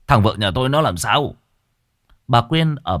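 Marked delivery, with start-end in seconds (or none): 0.1-1.3 shocked stammer. Acted. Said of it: "miệng lắp bắp".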